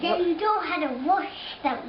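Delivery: put-on English accent. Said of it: "What kind of English accent".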